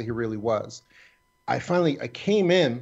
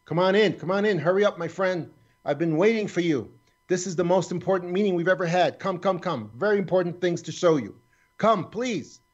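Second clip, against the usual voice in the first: higher, urgent beckoning call, imitating Kartos; pitched-up pleading summons, retold; retold eager yelling; 5 semitones higher than usual. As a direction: coax him inside with mock excitement. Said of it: "now Kartos is yelling at me".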